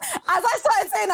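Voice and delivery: high, giggling through the words; laughing. Real, not acted. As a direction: laugh while owning up. Laughing at her own slip.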